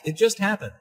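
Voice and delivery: emphasis on "just", falling after it; stress on JUST. Acted. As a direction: lean on the word "just". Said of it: "Notice the stress on just".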